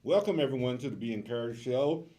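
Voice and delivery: talking with a mouthful of bread; words round a bite of bread; chewing crusty bread. Real, not acted. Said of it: "I have bread in my mouth".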